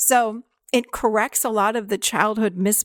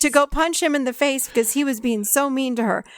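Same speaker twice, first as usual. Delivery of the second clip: adolescent voice; 4 semitones higher than usual. Retold or imitated. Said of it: "That's the wrong voice".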